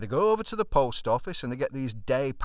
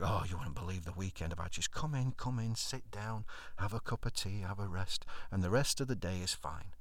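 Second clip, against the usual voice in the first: smug and soft; 6 dB quieter than usual. Retold or imitated. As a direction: lay it on gently. Husband smugly playing victim.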